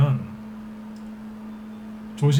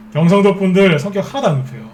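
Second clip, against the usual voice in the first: higher and louder, 하나도 hit hard; emphatic repeat; 5 semitones higher, 4 dB louder than usual. Shown as a demonstration. Praising Gyeongsang members to viewers, emphatic louder repeat. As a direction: say it again with full conviction, 하나도 stressed. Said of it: "네, 칭찬해드리는 거예요".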